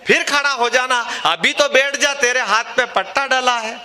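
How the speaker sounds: punchline repeated with extra push. Shown as a demonstration.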